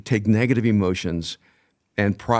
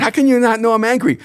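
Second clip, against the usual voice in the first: much higher, louder, disbelieving cry; incredulous outburst; 12 semitones higher, 6 dB louder than usual. Retold or imitated. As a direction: retell the moment you exploded at your wife in disbelief. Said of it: "I said".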